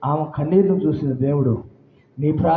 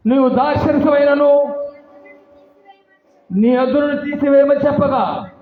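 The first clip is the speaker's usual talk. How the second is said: reading aloud; 10 semitones higher, 5 dB louder than usual. Acted. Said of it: "చదవండి అమ్మా".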